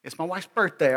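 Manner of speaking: ordinary delivery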